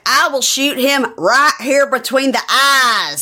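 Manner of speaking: high, slow, emphatic threat; aggressive mock threat. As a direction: act out an over-the-top threat, drawing out each word. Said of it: "That was a little aggressive".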